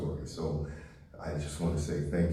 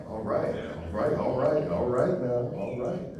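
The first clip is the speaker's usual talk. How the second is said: high, louder answer to a shout from the crowd; excited call-back; 6 semitones higher, 5 dB louder than usual. Real, not acted. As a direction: answer the heckler, pumped up. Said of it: "There's always one in the group".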